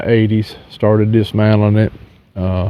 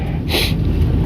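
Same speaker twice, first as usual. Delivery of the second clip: sniffling; 4 dB quieter than usual. Real, not acted. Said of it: "I'm sorry about the sniffling".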